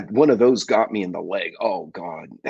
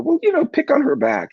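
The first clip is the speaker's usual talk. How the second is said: retold advice; 4 dB louder than usual. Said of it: "I told my daughter".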